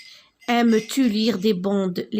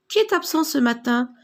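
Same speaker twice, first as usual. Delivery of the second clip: teacher calling the register; 4 semitones higher than usual. Shown as a demonstration. Teacher taking the register asks the class who is absent. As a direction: call "Qui est absent ce matin?" out to the class with a rising voice. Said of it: "La maîtresse lors de l'appel en classe".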